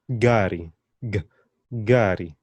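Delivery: gari with an emphatic hard g; gari, firm g at the start. Shown as a demonstration. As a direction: isolate and press the G of gari. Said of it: "they have a bit of emphasis on them".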